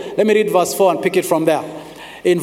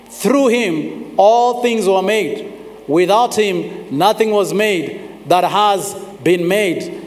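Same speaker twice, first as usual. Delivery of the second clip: scripture reading. Acted. Reads John chapter one aloud.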